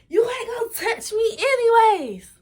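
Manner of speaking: high laughing mock yell. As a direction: shout it through a laugh. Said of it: "She gonna yell".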